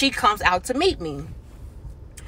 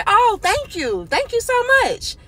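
flattered thanks; 11 semitones higher than usual. Retold or imitated. Flattered reply to compliment.

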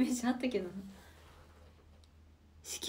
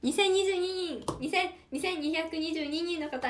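excited count; 4 semitones higher, 3 dB louder than usual. Real, not acted.

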